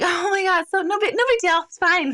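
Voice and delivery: smooth it over awkwardly; sheepish brush-off. Retold or imitated. Backing down, embarrassed, after swearing.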